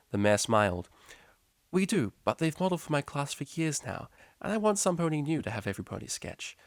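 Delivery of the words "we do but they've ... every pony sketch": higher, coaxing teacher voice; a teacher gently nudging a student; patient high teacher; teacher's voice. A narrator's reading.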